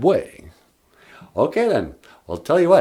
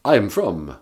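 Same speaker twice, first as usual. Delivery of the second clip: lightly voiced vampire, proud of Transylvania; a hint of the Count, explaining grandly; mild mock Count accent. Count voice answering host.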